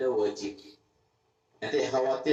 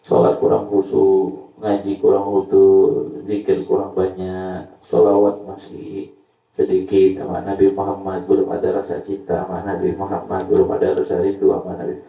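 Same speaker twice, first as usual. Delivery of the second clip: crying prayer; 2 semitones lower, 9 dB louder than usual. Retold or imitated. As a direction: shout the repentance to God at night. (doa keras memohon ampun)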